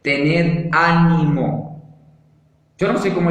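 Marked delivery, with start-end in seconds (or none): 0.0-1.8 slow, stressing ánimo; slow emphasis. Shown as a demonstration. Preacher repeating Jesus' first word slowly to the congregation. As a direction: lean on "ánimo", drawn out. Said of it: "Es la primera palabra".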